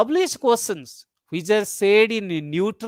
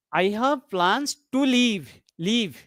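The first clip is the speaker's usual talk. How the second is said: "leave" made the key word, then repeated alone; stress on LEAVE. Shown as a demonstration. Teacher pointing out the underlined word, stress on "leave". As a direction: put the sentence's weight on "leave". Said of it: "the leave word is bold and underlined".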